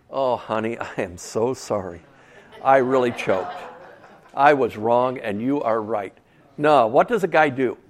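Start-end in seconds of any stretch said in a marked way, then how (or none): 0.1-6.1 lightly acted contrite murmur, lower than usual; mock apology. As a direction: play at humbly soothing your wife. Mock husband apologising to his wife.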